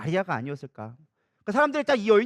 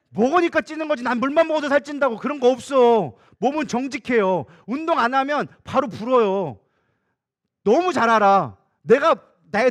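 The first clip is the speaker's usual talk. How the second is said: loud, raised-pitch preaching; forceful preaching; 4 semitones higher, 7 dB louder than usual. Real, not acted. Preacher tells congregation the body cannot be fooled, forceful preaching. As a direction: drive each phrase home loudly.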